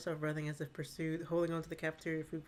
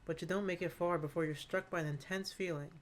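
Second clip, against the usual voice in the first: story narration. A narrator's reading. GM scene narration.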